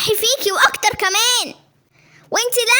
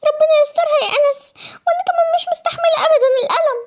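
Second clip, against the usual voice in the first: put-on higher girl's voice dropping into a laughing whisper; pained whisper; 6 semitones higher than usual. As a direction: breathe out the pain half-laughing. Sister in pain.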